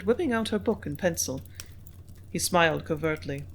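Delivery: ordinary talk, nothing marked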